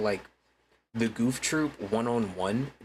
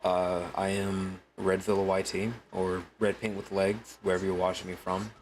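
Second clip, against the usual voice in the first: real lower voice; 3 semitones lower than usual. Shown as a demonstration. Streamer showing chat his natural voice, a touch lower. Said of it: "this is my real voice".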